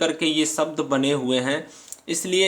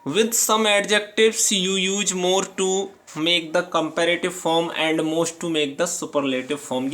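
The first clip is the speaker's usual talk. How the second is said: reading the rule aloud, word by word; slow, careful dictation pace; slow textbook reading; much slower than usual. Acted. Teacher reading the rule to students, slow and deliberate.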